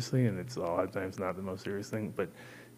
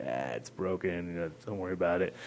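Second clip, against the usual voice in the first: mock casual; 3 semitones lower, 3 dB quieter than usual. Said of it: "I kinda was just gonna go on that, like".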